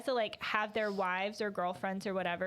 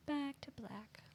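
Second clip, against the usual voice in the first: breathy whispered echo; 4 semitones higher, 8 dB quieter, slower than usual. Pretend. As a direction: whisper the title back. Echoing song title whispered.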